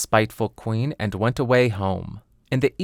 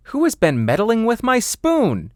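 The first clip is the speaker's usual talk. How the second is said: high, indignant dwarf voice; a high, put-out little dwarf; high dwarf question; fourth dwarf; 11 semitones higher, 4 dB louder than usual. Acted.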